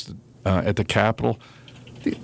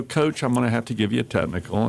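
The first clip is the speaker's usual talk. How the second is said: calm; faster than usual. Shown as a demonstration. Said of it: "calmly give a technical".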